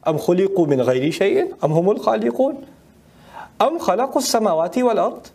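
chanted Quranic recitation, fast and flowing. Acted. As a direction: intone the verse like tajweed recitation.

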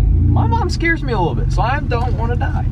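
squeaky high helium voice. Pretend. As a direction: talk after sucking helium. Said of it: "he's gonna helium up".

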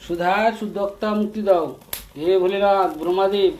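chanted plea to the gods, voice held up; loud invocation. Real, not acted. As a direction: call out the prayer loudly. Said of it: "জোরে জোরে?". (জোরে জোরে মন্ত্রের মতো প্রার্থনা)

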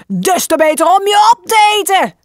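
put-on wolf shouting as he leaps at the girl; wolf's shout. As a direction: pounce with the voice. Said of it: "schreeuwde de wolf".

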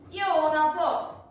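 loud, slow call across the yard. A narrator's reading. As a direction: call out a greeting to an empty house. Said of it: "Elkiáltotta magát az udvaron".

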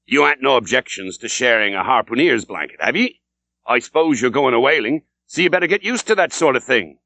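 a lightly voiced old landlord, sly and chummy.

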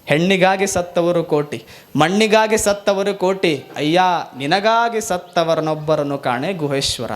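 measured recited verse; solemn devotional recitation; vachana recital. Acted. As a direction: intone the saint's verse. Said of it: "ಗುಹೇಶ್ವರ್ ಅಂತಾರೆ".

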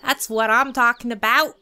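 loud mock "all right" cheer; imitated hype. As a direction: voice his loud, pumped-up approval. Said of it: "He's all like".

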